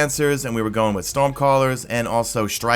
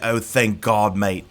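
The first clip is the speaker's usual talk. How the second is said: badly faked British accent; attempted UK accent; much slower than usual. Relieved friend in the party chat, poor UK accent. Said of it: "I can't do a U K accent".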